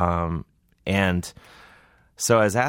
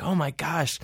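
mock gushing; 9 semitones higher, 4 dB quieter than usual. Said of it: "I was like an idiot".

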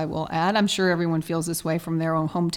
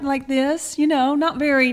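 Southern accent demo; 4 semitones higher than usual. Shown as a demonstration. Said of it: "How did you used to talk? I want to hear it".

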